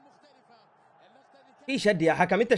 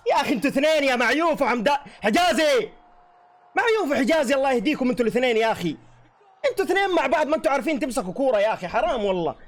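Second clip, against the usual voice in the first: higher, raised voice, berating them; exasperated scolding; 6 semitones higher than usual. Real, not acted. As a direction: tell off both defenders for the goal. Fan scolding defenders after goal.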